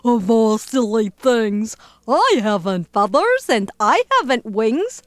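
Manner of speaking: amused, chuckling between phrases; laughing elephant. Acted. Elephant refusing silly request, amused laughing. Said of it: "The elephant laughed".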